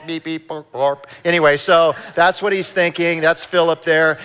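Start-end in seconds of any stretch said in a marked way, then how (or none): 0.1-1.1 robot beeps. Pretend. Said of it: "I sounded like a robot".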